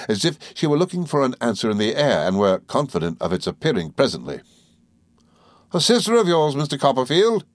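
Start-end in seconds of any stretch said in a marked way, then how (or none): 5.7-7.4 very high, loud oh; little creature's cry. Acted. Mowcher cries out at the guests, very high. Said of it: "she cried".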